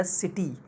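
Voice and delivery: सिटी with टी drawn out; light सि, stretched टी in सिटी; stress on टी. Shown as a demonstration. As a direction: lean on the टी of सिटी. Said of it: "टी को हमने खींचा है".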